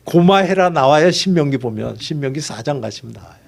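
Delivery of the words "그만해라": firmer, fuller Gyeongsang "고마해라" at normal pitch; 또렷한 경상도 사투리로 "고마해라"; Gyeongsang dialect. Retold or imitated. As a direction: say "고마해라" plainly in Gyeongsang dialect, as a firm stop. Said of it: "저 경상도식의 표현이 있어요".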